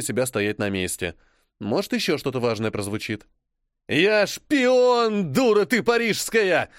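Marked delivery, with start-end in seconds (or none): 3.9-6.7 louder, higher snarling Brit; growling. Acted. John snarling his confession at the Parisian, angry. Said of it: "рычит британец Джон".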